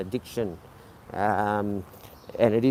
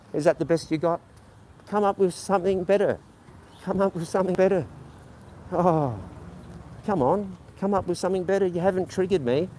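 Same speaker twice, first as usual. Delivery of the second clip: higher, fast, goading taunt; 5 semitones higher, faster than usual. Real, not acted. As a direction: dare them to try harder. Taunting a troll in chat.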